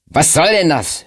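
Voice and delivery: high indignant outburst, stress on denn; shrill-pitched mock shout at the room. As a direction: fling the question out in protest. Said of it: "schrie Schlim".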